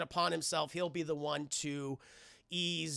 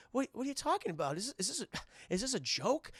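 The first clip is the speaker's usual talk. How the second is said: tag; 6 semitones higher, 4 dB quieter than usual. Retold or imitated. Acting sweaty dad's disbelief.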